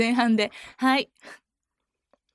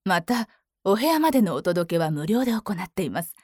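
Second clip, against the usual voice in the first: lower, mature woman read; forty-year-old woman voice; 5 semitones lower than usual. Acted. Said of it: "四十ぐらい。". (四十代の女性の声)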